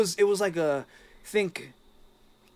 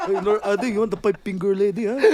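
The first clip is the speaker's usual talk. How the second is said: weed seller; 5 semitones higher, 10 dB louder than usual. Acted.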